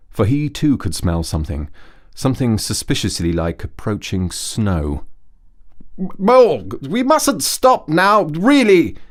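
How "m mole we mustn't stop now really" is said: high, loud, hurried Rat voice; louder, higher call of a busy Rat; Rat calling back. A narrator's reading. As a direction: call back over his shoulder. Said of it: "he called back".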